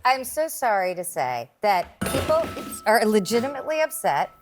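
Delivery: mock-apologetic sarcasm; sarcastic. Real, not acted. Panelist mocking the both-sides jab, sarcastic. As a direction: apologize without meaning it.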